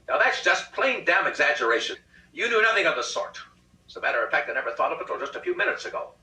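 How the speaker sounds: agudo e alto, indignado; protesto indignado. A narrator's reading. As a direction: marido negando com indignação. Husband indignant.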